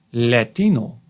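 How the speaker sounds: low, put-on Spanish accent on LATINO. Shown as a demonstration. Doctor mimicking a would-be club member, low Latino accent. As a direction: imitate someone faking a Spanish accent. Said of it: "did it in a Latino accent".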